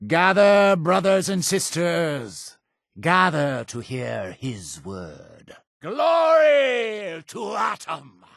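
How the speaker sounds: high, ringing call to the faithful; preacher's rallying call. Acted. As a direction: summon the congregation, building to a shouted praise. Preacher calls congregation to gather.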